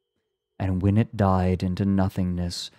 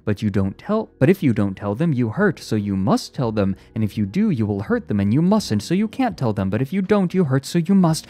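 insistent, looping chant-like recital; relentless drone; 5 semitones higher, 5 dB louder, faster than usual. A narrator's reading. Psychologist corners the robot with a dilemma, droning. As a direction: hammer the dilemma without letting up. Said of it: "droned the psychologist slowly".

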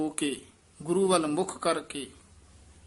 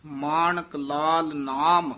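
slow phrase, resting after ਨਾਮ; full pause after; 4 dB louder, slower than usual. Shown as a demonstration. Teacher marking the rest point, slow with stop after ਨਾਮ. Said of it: "ਇੱਥੇ ਵਿਸਰਾਮ ਹੈ".

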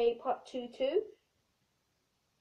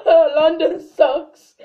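mock loud slow; 14 dB louder, much slower than usual. Slow loud far mock line.

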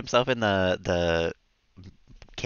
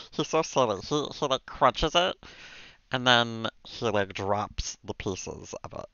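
a lightly done gravelly alien cartoon voice, slowed in places; half-hearted Stitch impression, drawn out. Streamer keeps up the Stitch voice while feeding the cat, mildly done. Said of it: "talk in the Stitch voice".

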